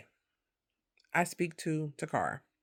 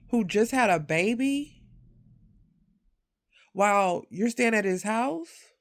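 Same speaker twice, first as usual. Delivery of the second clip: retold indignation; 3 semitones higher than usual. Woman retelling how she warned her friend about the boyfriend's accusation, indignant. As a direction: lay out the offense point by point, riled up. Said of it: "I'm mad".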